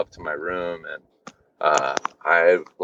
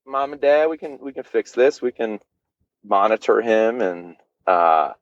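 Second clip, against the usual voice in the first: raised, lightly voiced reassuring staff; voicing the doctors; 2 semitones higher than usual. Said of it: "they're like".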